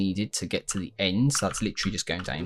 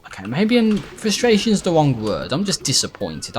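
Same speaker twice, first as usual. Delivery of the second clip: worked up; 6 semitones higher, 5 dB louder than usual. Real, not acted. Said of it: "I might not sound like I'm getting frustrated".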